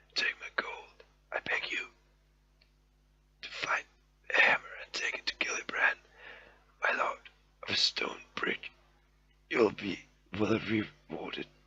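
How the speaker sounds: quiet whispering. Voicing a wounded dwarf pleading with a friend for help: low whisper. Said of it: "you again in a low whisper".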